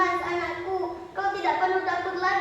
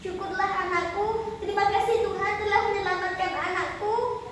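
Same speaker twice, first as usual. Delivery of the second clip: thankful mother; 4 semitones higher than usual. Acted. Mother thankful daughter is safe.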